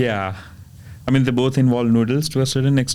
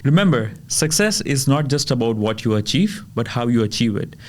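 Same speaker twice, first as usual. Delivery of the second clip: podcast outro. Acted.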